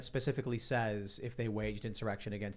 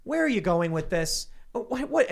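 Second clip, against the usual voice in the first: high, climbing mock disbelief; mock incredulous; 9 semitones higher, 3 dB louder than usual. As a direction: play the baffled judge. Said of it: "he keeps saying things like".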